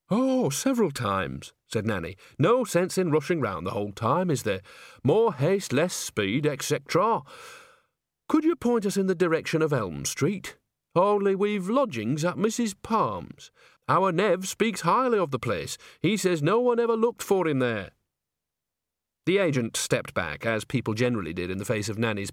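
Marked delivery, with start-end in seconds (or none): 0.1-1.5 slow, cheery, higher granny voice; a pleased old countrywoman being gracious; chatty old witch. Acted. Nanny Ogg tells the agent, slow and cheery. 2.4-17.9 put-on a pleased old countrywoman being gracious; chatty old witch. Nanny Ogg's pump-action chatter.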